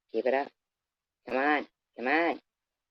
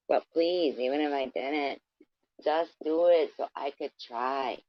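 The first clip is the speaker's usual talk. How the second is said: higher, mock pleading dare; taunting plea; 4 semitones higher, 3 dB louder, slower than usual. Real, not acted. Vlogger dares critics to drive here, higher pitch. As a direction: beg them mockingly to show up.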